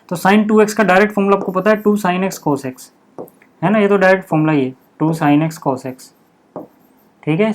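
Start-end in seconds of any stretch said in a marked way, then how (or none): 1.8-2.9 each term drawn out slowly as it is written; slow dictation. Real, not acted. Teacher to class, writing the sin 2x formula: slow dictation. 5.0-6.1 drawn out term by term; slow dictation. Real, not acted. Teacher repeating the formula for students: slow dictation.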